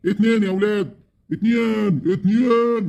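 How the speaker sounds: building amazement, repeating two; rising excitement. Acted. Uncle marvels at two wives. (دهشة متصاعدة)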